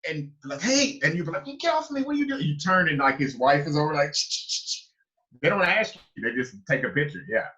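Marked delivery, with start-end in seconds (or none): 0.6-1.0 stranger calling out. Retold or imitated. Stranger grabbing for photo. 1.5-2.4 much higher, startled get-off-me; high indignant protest. Retold or imitated. Grabbed by strangers for photos, high indignant protest. 4.1-4.9 whispered ch-ch camera clicks; camera shutter clicks. Retold or imitated. Imitating the wife taking pictures, whispered shutter clicks.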